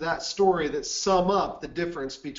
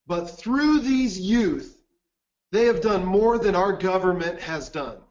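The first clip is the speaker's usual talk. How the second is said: mildly raised voice, deliberate opening; retold public proclamation. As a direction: retell a public declaration with a touch of volume. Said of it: "he said in a loud voice".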